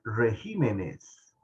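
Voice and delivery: "regímenes" slowly, accent on the GÍ; "regímenes" with the second syllable stressed. Shown as a demonstration. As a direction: draw out re-GÍ-menes as a model. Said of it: "Se brinca de la E a la I".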